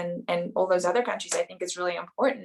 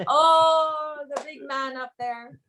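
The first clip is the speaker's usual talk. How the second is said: put-on terrible Irish accent; 7 semitones higher, slower than usual. Actress jokes about God in a mock Irish accent. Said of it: "My terrible Irish accent".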